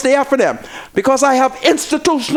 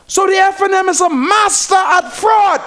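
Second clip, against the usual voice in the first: angry shout; 5 semitones higher than usual. Real, not acted. Host shouting his accusation to the listeners. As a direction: call it fraud at full voice.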